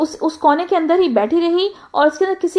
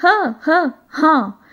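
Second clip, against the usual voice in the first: stammered yes; much slower than usual. Acted. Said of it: "तो फिर भोली ने कहा".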